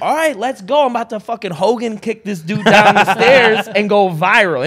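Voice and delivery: loud, high, fired-up rush; hyped up. Retold or imitated. Comic about to kick a heckler off stage, loud and pumped. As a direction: psych yourself up for a fight. Hyping himself up for a fight.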